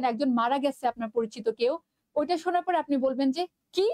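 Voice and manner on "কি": surprised, questioning "কি?"; a demonstrated startled "কি?". Shown as a demonstration. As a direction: say "কি?" as if hearing shocking news. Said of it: "surprised হয়ে।".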